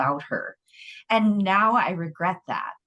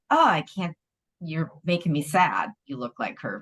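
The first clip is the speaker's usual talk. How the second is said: sad. Retold or imitated. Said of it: "he said it in a way like".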